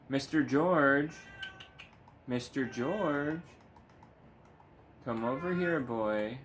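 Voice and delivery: drawn-out call across the room to the cat. Real, not acted. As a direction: coax the cat over with a lilting call. Calling the cat over.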